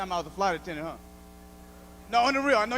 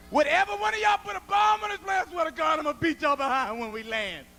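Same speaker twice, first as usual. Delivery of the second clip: higher, louder mock threat; threatening the passengers; 6 semitones higher, 3 dB louder than usual. Flight attendant threatening passengers over a bomb, hammed-up and loud. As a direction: bark it at the whole cabin.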